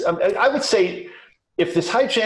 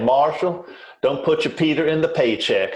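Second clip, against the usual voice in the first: put-on Southern US accent. Quoting an owner dentist's advice to a new associate: Southern accent. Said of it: "In his Southern accent".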